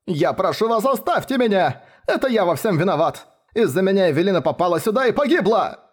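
high, tearful plea full of guilt; sobbing guilt. A narrator's reading. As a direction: beg them through tears. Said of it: "всхлипнул Марч Бэнкс". (сквозь слёзы, с виной)

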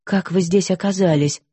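ordinary delivery

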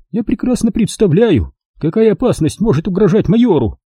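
high composed lady's voice; calm, knowing; lightly voiced lady. A narrator's reading. Miss Rushby answers Jigger, lightly voiced. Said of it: "кивнула мисс Рашби".

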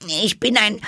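put-on high girl, stalling a second time; second faltering try; unsure Alice again. A narrator's reading. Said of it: "etwas unsicher".

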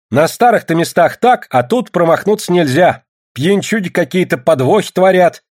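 high, insistent peasant woman's speech; Ksenia's plea. A narrator's reading. Ksenia urges men to elect a family man, insistent.

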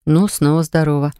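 ordinary delivery, nothing marked

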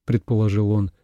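ordinary delivery, nothing marked

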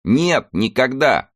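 high, slow shout through tears; shouting over machinery. Acted. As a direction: yell back over the clatter of the train. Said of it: "закричал ему Мика сквозь грохот и слёзы".

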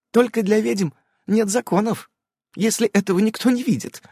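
put-on a child's gleeful echo; gleefully chiming in. A narrator's reading. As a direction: cheerfully repeat grown-up words. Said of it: "радостно подхватила".

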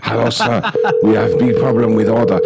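clipped broken English, hammed-up Chinese accent; mock Chinese accent. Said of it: "as an Asian guy".

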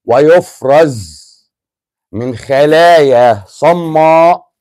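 slow, deliberate dictation for memorizing. Shown as a demonstration. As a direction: spell it out slowly for students. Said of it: "احفظ الكلمه دي ورايا".

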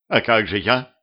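tearful wail climbing high at the end; narrated sobbing lament; bawling. A narrator's reading. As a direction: wail it helplessly, slowing down. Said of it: "ещё пуще заревела Мария".

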